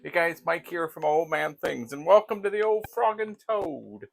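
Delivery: bright, high, loud welcome; upbeat intro. Real, not acted. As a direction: greet the viewers with energy. Upbeat channel intro greeting.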